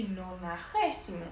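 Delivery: nonagésimo with a rasped Spanish j and a clear s, no-na-HE-si-mo; Spanish pronunciation. Shown as a demonstration. Teacher contrasting Spanish with Portuguese, Spanish pronunciation. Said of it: "em espanhol".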